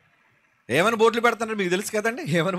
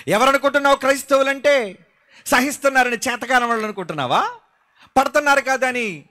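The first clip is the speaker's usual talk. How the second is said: indignant challenge; 7 semitones higher, 5 dB louder than usual. Acted. Preacher confronts critics of Christians.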